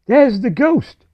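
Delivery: high, loud, drawn-out alarm; boy's high, slow shout of discovery; startled cry. A narrator's reading. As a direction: call it out loudly as you spot a ghost. Albert spots and points at the ghost.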